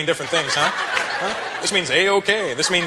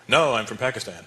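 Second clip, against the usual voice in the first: put-on Pakistani kid; 3 semitones lower, 3 dB quieter, slower than usual. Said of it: "argument with a Pakistani kid".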